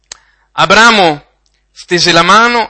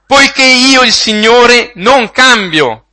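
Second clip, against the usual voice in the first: louder, slow and higher, hammering each word; loud emphatic proclamation; 5 semitones higher, 5 dB louder, slower than usual. Acted. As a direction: proclaim it slowly from the pulpit, full force. Preacher repeats a scripture line. (proclamazione forte e lenta)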